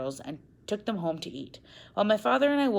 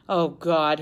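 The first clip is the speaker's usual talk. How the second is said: moaned; 7 dB louder than usual. Acted. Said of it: "he moaned".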